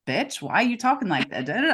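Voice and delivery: mock snippy friend. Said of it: "some people might be like".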